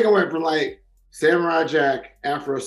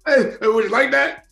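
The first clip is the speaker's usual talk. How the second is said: high, fast mock rant; hammed-up movie quote; 10 semitones higher, faster than usual. Quoting a movie to friends, high mock rant.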